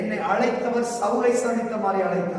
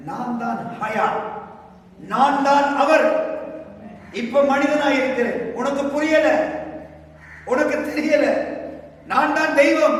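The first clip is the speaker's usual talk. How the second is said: divine declaration; 3 semitones higher than usual. Acted. Voicing Jesus declaring divinity.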